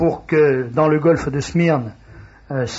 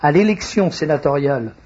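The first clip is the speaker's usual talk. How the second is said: plus lentement. Real, not acted. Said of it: "Faut que je parle plus lentement". (débit plus lent et posé)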